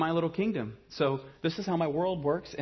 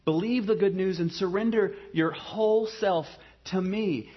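gentle invitation; 2 semitones higher than usual. Retold or imitated. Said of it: "And so Jesus says".

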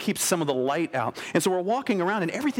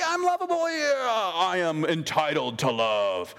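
smug entitlement; slower than usual. Pretend. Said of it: "it's like".

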